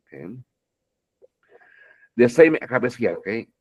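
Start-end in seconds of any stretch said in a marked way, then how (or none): none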